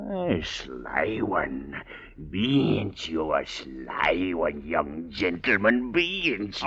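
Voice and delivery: sly relish. Acted. Savoring slowness.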